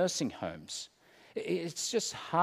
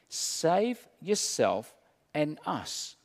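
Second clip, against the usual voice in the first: sneering sarcasm; slower than usual. Acted. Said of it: "he said that sneeringly with sarcasm".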